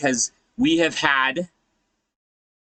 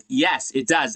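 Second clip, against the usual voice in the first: normal talking voice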